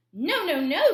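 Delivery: loud, high, firm no, no, no; loud refusal. A narrator's reading. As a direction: shout the refusal at the pig together. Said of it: "said the three little wolves".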